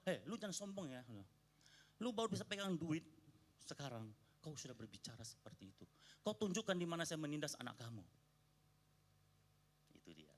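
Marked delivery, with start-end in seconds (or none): 0.1-8.0 higher, sharp rebuke; retold anger. Pastor rebuking the guest for his arrogance, angry. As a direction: put him in his place, angrier now. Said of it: "Saya emosi kan, tambah emosi".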